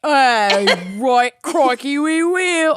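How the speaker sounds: strine Aussie voice; Australian accent. Acted. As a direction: lay on an Australian twang. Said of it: "that's kind of Aus".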